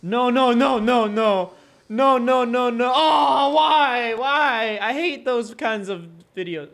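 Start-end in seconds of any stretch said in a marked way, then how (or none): 0.0-4.8 loud despairing no. Real, not acted. Watching a dog crash, loud despairing no. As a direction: wail at the screen.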